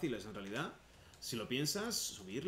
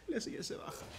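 whisper; 12 semitones higher than usual. Real, not acted. Whispered aside while laughing.

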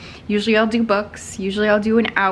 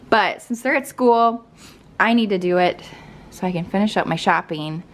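ordinary talk, nothing marked

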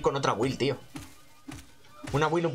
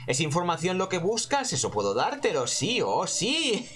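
voz de matrona insinuante. Acted. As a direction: leve voz de personaje misterioso. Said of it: "sí, claro, matrona". (voz de matrona misteriosa)

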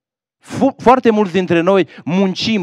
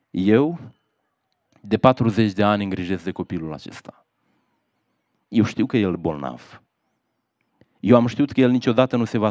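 put-on grieving old mother. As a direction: let the grief of forty years weigh on it. Old mother explains her tears.

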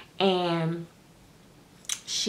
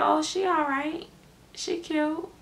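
high, softer faint approval; politely unimpressed, mimicking a mother; imitating lukewarm praise; 9 semitones higher, 4 dB quieter, slower than usual. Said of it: "that means she, she ain't standing out".

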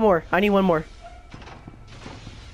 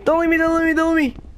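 panicked pleading; 6 semitones higher than usual. Real, not acted. Begging teammate not to leave.

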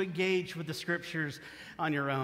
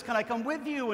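eager animal voice; 6 semitones higher than usual. Acted. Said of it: "Cocky Locky says".

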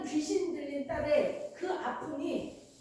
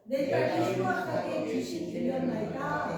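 scripture reading. Real, not acted. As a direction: read it evenly, as in unison. Congregation reads the verse together. (성경 봉독하듯)

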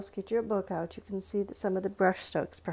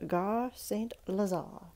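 attempted French accent; 5 dB quieter than usual. Shown as a demonstration. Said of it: "that was my attempt at a French accent".

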